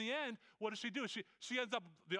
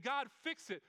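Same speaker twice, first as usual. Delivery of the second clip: higher, insistent plea; pleading believer; 5 semitones higher than usual. Retold or imitated. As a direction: push the plea at God.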